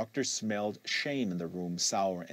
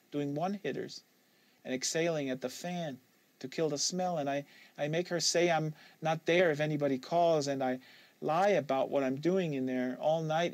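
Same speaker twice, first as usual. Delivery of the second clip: put-on a touch higher young woman's voice, guarded; Kate, lightly voiced; 6 semitones higher than usual. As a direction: give Kate a slightly higher, wary voice. Kate telling her habit.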